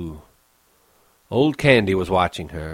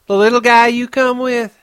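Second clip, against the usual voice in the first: a hint of a higher woman's voice; lightly voiced young woman; 8 dB louder than usual. Curly's wife asks Lenny about George, lightly voiced. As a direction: ask lightly in her voice.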